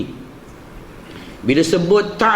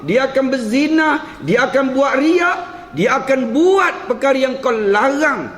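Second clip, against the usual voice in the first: protesting angels; 5 semitones higher than usual. Acted. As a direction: voice climbs higher and higher in mounting objection. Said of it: "Kalau tuan-tuan dengar intonasi saya ni, seolah-olahnya macam malaikat tu menyanggah Allah". (malaikat membantah dengan nada makin meninggi)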